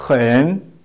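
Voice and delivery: "hen" with a rough h and dipping-rising tone; model pronunciation. Shown as a demonstration. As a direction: demonstrate "hen", dip then rise. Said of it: "How we pronounce it?".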